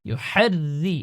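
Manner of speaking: ইউহাররি with a light, thin র under kasra. Shown as a demonstration. Teacher shows the light ra after explaining kasra. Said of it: "পাতলা হবে, রর নিচে জের রয়েছে".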